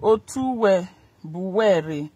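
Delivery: slow. Shown as a demonstration. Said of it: "slow repeat of chant".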